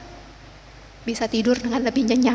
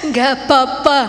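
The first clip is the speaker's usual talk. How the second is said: forced-out "it's okay"; retold reply, each syllable pushed out with effort; heavy, reluctant; 3 dB louder than usual. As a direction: say it as if it costs you. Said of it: "rasanya berat banget".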